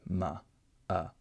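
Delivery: "ma" and "uh" with a full short U; short U sound. Shown as a demonstration. Teacher consciously makes the short U in "ma, uh". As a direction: sound the vowel of "ma, uh" deliberately. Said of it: "trying to make the short U sound".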